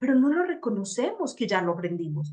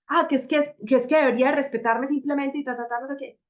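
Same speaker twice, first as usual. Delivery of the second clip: mock indignant objection; 4 semitones higher, 3 dB louder than usual. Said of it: "imitating a listener's objection".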